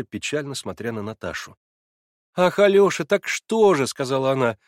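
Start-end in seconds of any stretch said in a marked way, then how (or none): 2.3-3.9 высоко и громче; мягко упрекни; Наташа с укором. A narrator's reading. Наташа укоряет. (Наташа укоряет Алёшу, громче)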